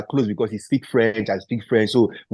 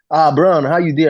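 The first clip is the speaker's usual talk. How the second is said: higher, louder phone hello; retold boss's greeting; 7 semitones higher, 6 dB louder than usual. Boss answering his player's phone call, imitated hearty greeting. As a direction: greet him heartily, pitched up.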